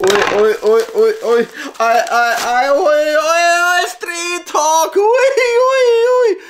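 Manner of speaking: climbing, very high-pitched squeal of delight; real fanboy squealing over a find; excited squealing. Real, not acted. Excited reaction to finding Street Hawk.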